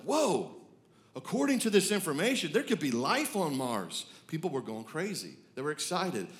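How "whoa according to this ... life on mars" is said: mock awe, starting high then settling; amazed. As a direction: play researchers marveling at a discovery. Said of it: "it was mind-blowing. They're like".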